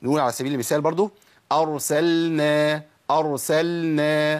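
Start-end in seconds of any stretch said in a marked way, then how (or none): 1.5-4.3 أرسلنا with لام clearly before نون, slowly; clear lam. Shown as a demonstration. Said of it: "ما أقولش".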